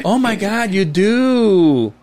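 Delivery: high-pitched imitation of a startled receptionist; mock astonishment. Acting receptionist's surprised discovery.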